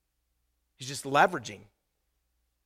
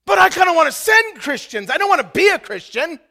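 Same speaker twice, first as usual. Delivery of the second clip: mock reluctant Christian; 13 semitones higher, 14 dB louder than usual. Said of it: "be like a real Christian".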